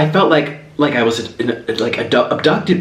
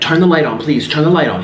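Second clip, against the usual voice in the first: louder, pleading, repeating the request; urgent plea; 3 semitones higher, 3 dB louder than usual. Retold or imitated. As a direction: beg him to hit the light, fast. Begging husband to switch light.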